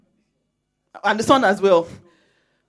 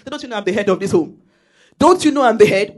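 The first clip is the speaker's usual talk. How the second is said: bossy husband; 6 dB louder than usual. Retold or imitated.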